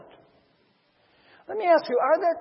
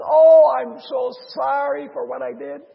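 acted wailing apology; mock crying; 5 semitones higher, 7 dB louder than usual. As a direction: plead like a debtor caught out, hammed-up. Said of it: "He starts crying out".

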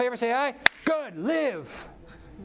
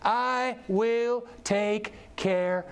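slow tender promise; 5 semitones higher, much slower than usual. Real, not acted.

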